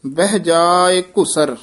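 careful phrase with a short stop after "ਘੁਸਰ"; brief halt. Shown as a demonstration. Teacher marks the half-pause, stopping after "ਘੁਸਰ". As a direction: drop onto "ਘੁਸਰ" and hold briefly. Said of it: "ਇੱਥੇ ਠਮਕ".

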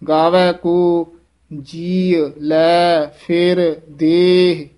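very slow, a break after ਗਾਵੈ ਕੋ; measured pause. Shown as a demonstration. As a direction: stop on ਕੋ, then slow. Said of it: "ਦੋਵੇਂ ਪੰਕਤੀਆਂ ਦੇ ਵਿੱਚ".

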